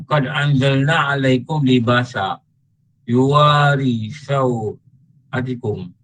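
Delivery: slow, measured chanting of the Arabic verse; slow Quranic chant; Quran recitation. Acted. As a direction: intone the verse slowly and reverently.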